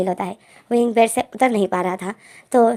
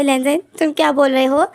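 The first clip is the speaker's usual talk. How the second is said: shocked; 5 semitones higher, 3 dB louder than usual. Acted. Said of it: "wing को झटका लग जाता है".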